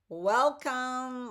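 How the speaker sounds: loud, high, drawn-out welcome; bright welcome. Real, not acted. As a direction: greet them with a big lift. Cheerful greeting to viewers.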